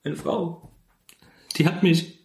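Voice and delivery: high, halting hammed-up grief; high mock-tragic voice. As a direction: choke out the betrayal, pitched high. Mock tragic confession about wife. (hohe, stockende gespielte Trauer)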